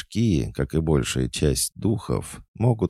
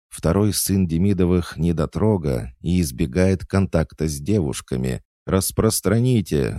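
higher, louder newsboy shout; loud proclaiming; 7 semitones higher, 4 dB louder than usual. A narrator's reading. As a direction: announce it to the whole crowd. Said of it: "заголосила она".

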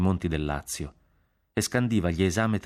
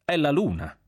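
higher-pitched surprised reply; amazed; 7 semitones higher than usual. A narrator's reading. General to Jack about the rising moon, amazed. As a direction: say it in sheer wonder. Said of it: "mi guardò meravigliato".

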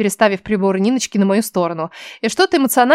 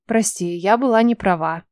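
скрытый сарказм. Acted. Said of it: "Стараясь скрыть сарказм".

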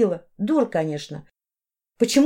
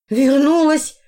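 mother shouts the word back, higher and louder; loud retort; 6 semitones higher, 5 dB louder, slower than usual. A narrator's reading. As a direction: fling it back at her.

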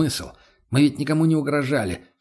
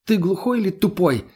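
sharp cutting retort; 7 semitones higher than usual. Acted. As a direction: cut him off hard and high. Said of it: "резко обрезала Лена". (Лена резко обрывает его, голос выше)

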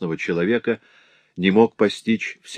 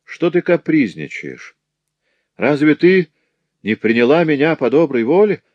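higher, mock-surprised master; Ferrand, feigned surprise; 6 semitones higher, 3 dB louder than usual. A narrator's reading. Master scolding the frightened girl, mock surprise. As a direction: act amazed she would run. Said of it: "спросил Ферран с таким удивлением".

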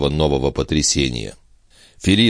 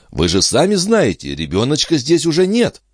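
maid voice; 10 semitones higher than usual. Acted. Maid speaks to master.

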